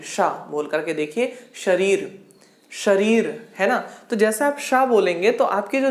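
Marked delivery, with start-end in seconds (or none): 1.5-3.5 "शरीर," with sha made by tongue near the palate; palatal sha. Shown as a demonstration. Teacher showing students where the tongue goes, palatal sha in "शरीर,". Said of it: "वो तालू को touch करना चाह रही है".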